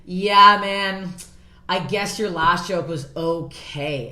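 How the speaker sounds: drawn-out, grudging mock verdict; imitated unimpressed woman. Tall woman judging the comic's show, imitated grudgingly. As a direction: stretch it slowly, conceding very little. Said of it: "she's like".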